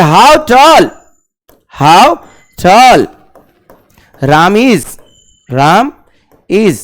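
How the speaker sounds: slow, word by word for the class; slow drilled phrase. Shown as a demonstration. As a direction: spell it out slowly, word by word. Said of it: "आराम से sentence बना दे". (धीरे-धीरे शब्द-शब्द करके)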